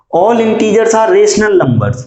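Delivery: slow, measured read-out; slow dictation. Shown as a demonstration. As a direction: let each word land for the class. Repeats statement for the class.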